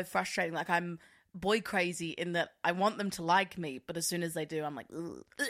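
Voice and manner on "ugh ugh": mock revulsion noise; acted "ick" sound; disgusted groan. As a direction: recoil with a short groan. Acts out being put off.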